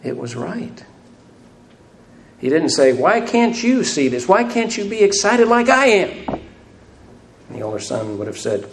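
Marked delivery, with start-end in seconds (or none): 0.0-0.8 soft, gentle reassurance; a softer, gentle "It was right"; gently said. Retold or imitated. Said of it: "He just gently said". 2.9-6.1 higher and louder "Why can't you", pushing; mock exasperated parent; exasperated rebuke. Imagined exasperated father rebuking son.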